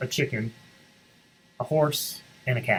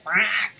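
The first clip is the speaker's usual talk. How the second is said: quack; 8 semitones higher than usual. Acted. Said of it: "said the duck".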